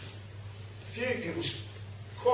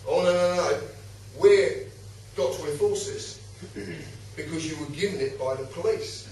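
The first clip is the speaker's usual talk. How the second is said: lightly imitated unfeeling official; mildly emotionless automaton; 3 semitones lower than usual. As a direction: recite the rule with little emotion. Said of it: "completely emotionless".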